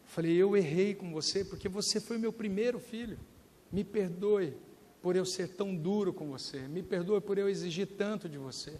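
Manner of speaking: humble yourself gently before your son; tender apology. Retold or imitated. Father asking his young son for forgiveness, softly and tenderly.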